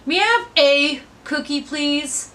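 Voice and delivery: a gentle lean on "have", then "please" eased off; stress on have. Shown as a demonstration. Teacher reading the line a new way, leaning on "have". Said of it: "change the vocal inflection".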